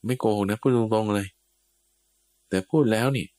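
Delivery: a hint of smug directness; blunt tone. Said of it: "โดยน้ำเสียงแบบเนี้ย".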